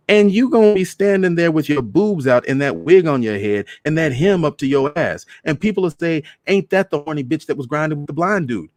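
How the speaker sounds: high, loud scolding; scolding rant. Acted. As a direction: tear into her mother. Daughter scolding mother.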